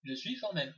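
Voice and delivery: soft, with a short pause after "suis" before "formelle"; "Je suis", brief stop, then "formelle". Shown as a demonstration. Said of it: "un arrêt à je suis". (pause après "je suis", doucement)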